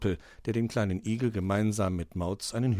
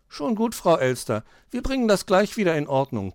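put-on high, reassuring child voice; comforting; 6 semitones higher than usual. A narrator's reading. Hoppel consoles the embarrassed magpie, reassuring. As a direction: soothe with easy kindness. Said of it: "tröstete sie Hoppel".

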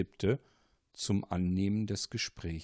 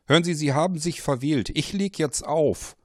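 fast, louder brush-off; curt dismissal; 6 semitones higher, 6 dB louder than usual. Acted. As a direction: cut him off firmly. Paul cuts the caller off.

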